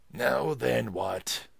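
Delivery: a mild mock bark at a peddler; rough shout. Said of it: "he shouted roughly".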